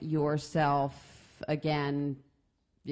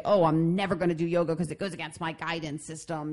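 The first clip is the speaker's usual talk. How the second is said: quick, stubborn brush-off in a put-on voice; rigid dismissive; faster than usual. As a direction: rattle it off like a closed-minded refuser. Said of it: "necessarily say".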